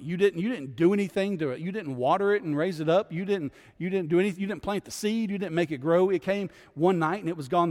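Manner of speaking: pressing rebuke. Retold or imitated. Preacher voices God rebuking Jonah.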